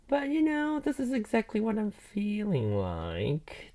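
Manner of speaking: breathy whispered aside; conspiratorial whisper to the viewers. Real, not acted. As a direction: drop to a whisper mid-thought. Whispered aside about boring search.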